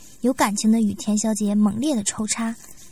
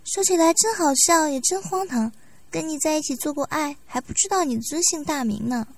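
woman asking shyly; 5 semitones higher than usual. Acted. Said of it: "忍不住地问道".

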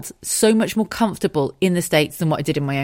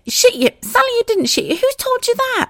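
high, loud laughing nurse; 4 dB louder than usual. Retold or imitated. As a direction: tease her warmly. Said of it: "she said to me".

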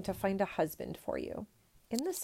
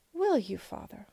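hopeful cry; 3 semitones higher than usual. Acted. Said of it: "cried the princess".

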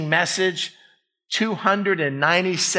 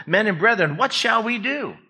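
raised, urgent question; pleading listeners; 5 semitones higher than usual. Acted. Crowd cut to the heart asking Peter, urgent appeal. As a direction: appeal to them for an answer. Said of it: "and said to Peter and the rest".

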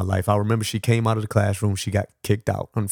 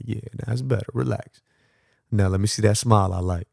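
soothing. Retold or imitated. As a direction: ease her into calm. Soothing the child.

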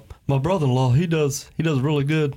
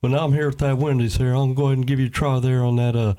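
lightly voiced cartoon dad; Hank Hill. Ordering at the drive-thru in a lightly imitated cartoon dad voice. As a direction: do a hint of a cartoon father chatting. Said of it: "What, what, Hank Hill".

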